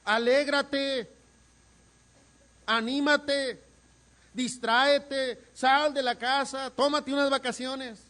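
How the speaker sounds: high, loud, slow mocking pep talk; hammed-up hollow cheering up, drawn out; mock cheery advice. Consejos huecos al deprimido, burla. (consejo alegre burlón, agudo y fuerte)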